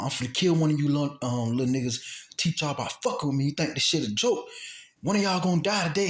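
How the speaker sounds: building retold death threat. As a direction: imitate a gunman's angry threat. Acting out the gunman's second threat.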